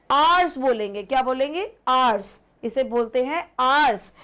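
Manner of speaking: आवर्स said as ars, no h; teacher models आवर्स with a silent h; silent h in hours. Shown as a demonstration. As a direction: start आवर्स right on the vowel. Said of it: "एच जो है वो silent है".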